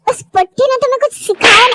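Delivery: fast, scornful shout at her; spiteful jab. Acted. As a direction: spit the insult about the old woman. Rival insults girl's grandmother. (तेज़, तिरस्कार भरी चीख)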